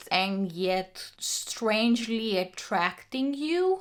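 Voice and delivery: slow, secretive whisper. Acted. Telling viewers how the strange book pulled her in, whispered slowly. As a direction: breathe it out like a secret. Describing an eerie audiobook.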